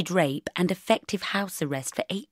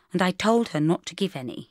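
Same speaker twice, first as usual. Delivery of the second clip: offhand, even delivery; casual. Acted. Mark telling Bridget he advised his client, casual. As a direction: toss it off lightly. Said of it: "he said casually".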